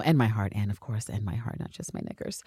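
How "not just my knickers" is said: much lower, soft, under the breath; muttered aside. Real, not acted. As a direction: slip it in quietly. Muttered correction.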